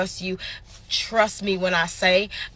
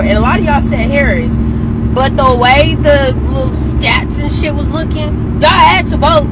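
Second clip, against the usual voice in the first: loud, high, furious shouting at her followers; furious rant; 5 semitones higher, 9 dB louder than usual. Real, not acted. Vlogger shouting at fans who voted for Trump, furious. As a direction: yell it out, fed up and betrayed. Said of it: "Like, I'm angry".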